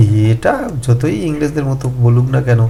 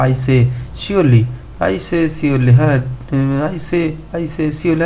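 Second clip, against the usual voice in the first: put-on light Oxford English accent, slow and mildly protesting; understated Oxford accent; 3 semitones higher, much slower than usual. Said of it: "in his Oxford accent".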